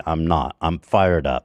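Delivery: low, calmer reassurance; fired up not angry. Real, not acted. Host reassuring co-host he isn't angry, calm and low. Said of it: "If it seems like I'm angry".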